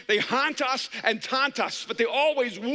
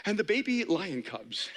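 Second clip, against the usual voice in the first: NPR narrator voice; 4 semitones lower than usual. Retold or imitated. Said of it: "elegant sort of N P R voice".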